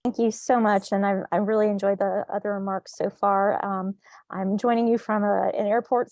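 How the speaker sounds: muffled behind a face mask; talking through a mask. Real, not acted. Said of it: "so forgive my mask".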